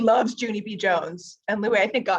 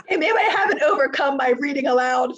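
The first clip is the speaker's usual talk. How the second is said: laughing; 2 semitones higher, 5 dB louder than usual. Real, not acted. Laughing refusal after being asked.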